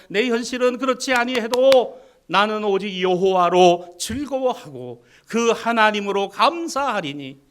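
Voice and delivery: loud, rising preaching; full-force preaching. Real, not acted.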